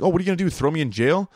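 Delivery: hammed-up grumpy codger taunting; old man in a chair. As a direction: play a defiant old guy who can't be punished. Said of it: "He's like".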